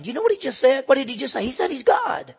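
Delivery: high, loud, scandalized voice of the crowd; outraged crowd. Retold or imitated.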